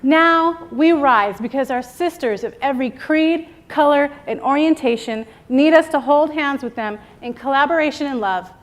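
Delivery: rousing speech. Acted. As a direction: preach empowerment like a rally. Motivational speech to women.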